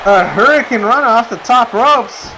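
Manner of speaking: rising play-by-play call, building to excited; wrestling commentator. Acted. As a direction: call it like a ringside announcer. S0 calls the match live.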